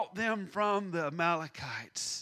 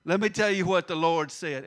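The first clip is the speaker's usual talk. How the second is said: imitating mother; 7 dB louder than usual. Preacher imitating his mother silencing him, louder. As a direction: cut John off like his mother did. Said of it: "she just say".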